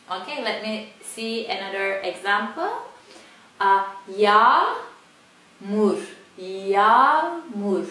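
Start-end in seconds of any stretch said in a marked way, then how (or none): 3.6-7.9 yağmur with a long a, no g; Turkish soft g. Shown as a demonstration. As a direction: say yağmur as yaamur. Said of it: "Normally it's like double A here".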